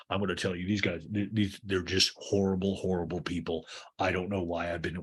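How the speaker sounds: lightly voiced low, weary grumble; Greg. Mean owner rants to Lisa about the Toms, low mock grumble.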